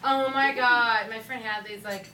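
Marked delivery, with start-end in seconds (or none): 0.0-1.1 gushing mock. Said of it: "same goddamn story".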